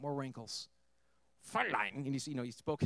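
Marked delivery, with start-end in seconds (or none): 1.5-1.9 a brief put-on German accent. Former guard greeting the woman he tormented, in a German accent. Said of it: "he spoke in his German accent".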